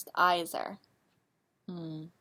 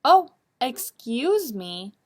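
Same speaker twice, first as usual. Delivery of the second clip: flustered apology; 3 semitones higher, 5 dB louder, slower than usual. Acted. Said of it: "exclaimed little Shadow".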